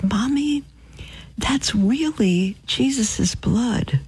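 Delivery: put-on hushed little-girl whisper, slow; child's whisper. Small girl whispering to her mother during consecration.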